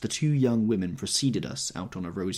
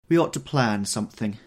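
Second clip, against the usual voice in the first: yawning; 3 semitones higher, 7 dB louder than usual. A narrator's reading. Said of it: "yawned Miss Baker".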